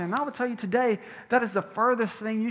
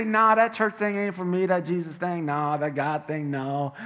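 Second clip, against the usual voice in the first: mock dismissive skeptic; 3 semitones lower than usual. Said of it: "than you say".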